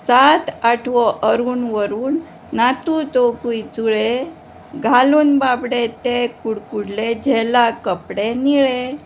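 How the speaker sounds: put-on measured sing-song children's verse reading; poem recitation. Teacher reading a poem aloud to schoolchildren, measured recitation. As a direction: recite each line with drawn-out line endings.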